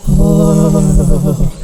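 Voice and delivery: hammed-up horror moan; spooky "ooh". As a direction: wail a mock-spooky "oh", held long. Spooky sound after "It was terrifying.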